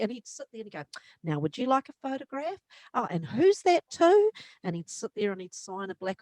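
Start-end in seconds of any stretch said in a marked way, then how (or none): 1.2-4.3 lightly voiced B B. B B greeting fans.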